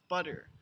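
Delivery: flick the tongue down for the tt in "butter"; flap T. Shown as a demonstration. Teacher demonstrating for Japanese learners, flap T. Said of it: "made by a downward".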